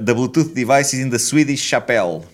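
slow robotic announcement; imitating device voice. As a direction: read it out like the device. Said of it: "o que me parece que ela diz é".

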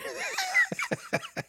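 a high, breathy burst of laughter. Real, not acted. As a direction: let a real laugh break out high. Laughing at Victor's joke.

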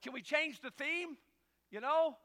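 high, loud, slow mock whine; whiny plea. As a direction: beg like a kid. Pastor pleading with deacon, retold.

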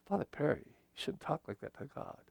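nervous parishioner whispering disapproval; shocked whisper. Retold or imitated. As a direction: hush him in horror after a gasp. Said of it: "Catholics get all nervous about it".

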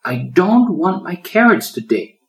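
put-on high, loud defiant child; a little girl defying her mother, high and loud; defiant exclamation. A narrator's reading. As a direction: stamp your foot with the words. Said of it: "she exclaimed defiantly".

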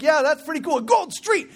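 high, impressed dad; humoring the kid with mock wonder; father echoing his son, pitch jumping up; dad playing along. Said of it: "And I was like".

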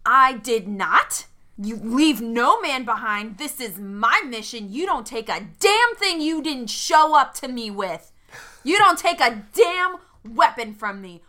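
acted indignant anger, words drawn out; very angry. Sal scolds Duarte for taking the weapons, angrily. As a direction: tell him off with slow, emphatic anger. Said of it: "I'm getting very angry".

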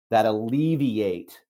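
"alleviate" drawn out slowly; stress on alleviate. Real, not acted. Coach telling listeners what habits do to stress, stressing "alleviate". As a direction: lean on the word "alleviate", taking it slowly. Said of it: "I just emphasize the word alleviate".

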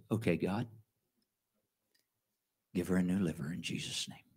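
low, soft, matter-of-fact request; just ask plainly, no fuss; calm simple ask. Retold or imitated. Preacher retelling his simple prayer, soft and low. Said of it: "Just like that".

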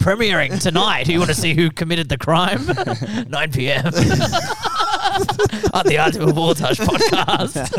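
drawn-out, hammed-up show trailer voice; playful announcer plug; mock promo announcer. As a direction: announce it like a teaser for a special.

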